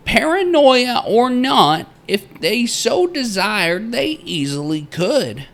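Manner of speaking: high, loud-edged theatrical proclaiming; old-time miner's journal. Acted. Narrator reading the miner's journal entry aloud, theatrical miner voice. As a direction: read it out like a grandiose frontier diarist.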